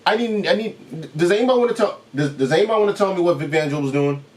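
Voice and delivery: pleading disbelief. Real, not acted. Begging anyone to explain the coach.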